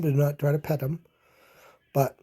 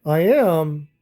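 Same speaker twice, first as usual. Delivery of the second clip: sniffed; 6 dB louder than usual. Acted. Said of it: "sniffed the buffalo".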